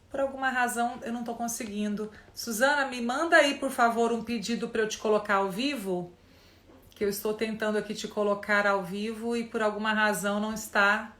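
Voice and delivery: usual speaking voice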